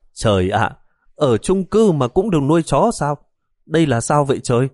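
rising in shock at the dog; startled exclamation. Acted. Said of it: "Bà giật bắn người".

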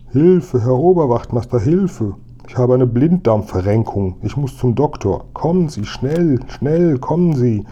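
high, pleading mock wail; wailing cry for help. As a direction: call out as if in urgent distress. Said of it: "ertönt aus dem Spritzenhaus lautes Wehgeschrei". (hohes, gespieltes Wehgeschrei um Hilfe)

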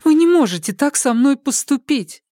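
high, loud begging plea; pleading. A narrator's reading. Polina begs Makar not to hide it, pleading. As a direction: beg him not to do this. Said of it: "взмолилась Полина".

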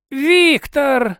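high, strained croak; Rao croaking. A narrator's reading. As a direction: croak out a name in alarm. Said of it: "прохрипела Рао".

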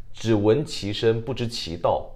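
drawn out slowly; 一字一顿; slow, measured saying. Shown as a demonstration. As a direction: let the idiom land slowly.

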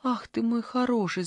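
high, sing-song cooing. Acted. Granny coos to her cat, high and sing-song. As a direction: coo over the cat. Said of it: "запела бабушка".

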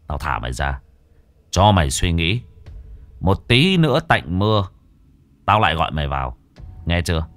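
a hint of a stern exorcist's menace; menacing exorcist. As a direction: lean in and warn the spirit coldly. Exorcist releases the ghost.

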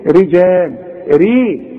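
thin r before "i" in رجال; careful thin ra in رجال and ري; light ra. Shown as a demonstration. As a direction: isolate a light, front "ri" on ري. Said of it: "لكن المكسورة نقول إيه؟".

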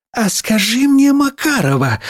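slow, high, drawn-out teacher's opener; pointed questioning. A narrator's reading. Teacher starting on Макарова, suspicious and pointed. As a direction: open an interrogation, stretching it out.

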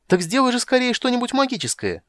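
high, loud excited squeal; squealing kender. Acted. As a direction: bounce and shriek. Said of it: "заверещал Кендер".

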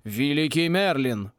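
slow, aghast exclamation; acted gasp of shock; gasped amazement. A narrator's reading. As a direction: draw it out in astonishment. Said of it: "ахнул ректор".

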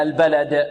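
echoing bounce on the final د of البلد; قلقلة الدال. Shown as a demonstration. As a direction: release the د in البلد with a clear bounce. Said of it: "نوضح القلقلة هنا". (قلقلة واضحة على دال البلد)

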